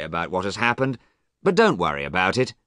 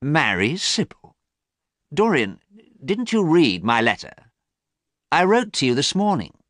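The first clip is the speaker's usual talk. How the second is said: surprised Harry; 7 semitones higher than usual. A narrator's reading.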